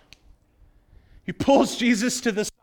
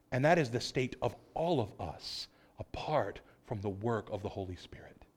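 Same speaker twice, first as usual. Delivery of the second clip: lowered voice for a heavy truth; hushed solemn; 6 semitones lower, 7 dB quieter than usual. Real, not acted. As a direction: drop to a near whisper.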